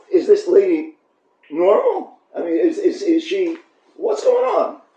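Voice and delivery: rising, disbelieving ask; incredulous question. Real, not acted. Rabbi asking the congregation if the lady is normal, incredulous. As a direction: throw the question up in astonishment. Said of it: "rhetorical question in disbelief".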